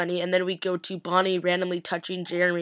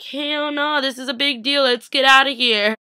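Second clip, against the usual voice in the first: higher pitched alarmed outburst; panicked; 6 semitones higher, 4 dB louder than usual. Pretend. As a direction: insist on leaving, all worked up. Imagined panicked reaction.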